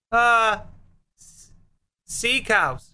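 hesitant, embarrassed admission; small, reluctant confession; sheepish inmate. Acted. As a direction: stammer out the silly crime. Sheepish inmate admits silly crime.

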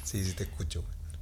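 quiet unvoiced whisper. Real, not acted. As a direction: whisper back the reply. Whispered reply to secret.

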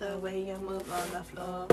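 flat, slow, emotionless singing; monotone. Shown as a demonstration. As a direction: sing it like a bored robot. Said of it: "I sounded so monotone".

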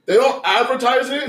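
laughing, half shouting it out, slow; cracking up while telling it. Real, not acted. Laughing at the friends' shocked reaction. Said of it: "laugh shout".

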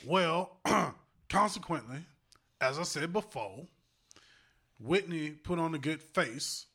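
lightly voiced preacherly statesman impression; measured phrases with deliberate pauses, lightly put on; Jesse Jackson. Host explaining a famous singer couple, mock Jackson oratory. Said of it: "In my Jesse Jackson voice".

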